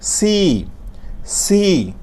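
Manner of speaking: সি with a sharp hiss of air. Shown as a demonstration. Teacher demonstrating hissing সি to class. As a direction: let the s in সি whistle through the teeth. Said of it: "একটু মুখ দিয়ে শীষ বের হয়ে যাবে".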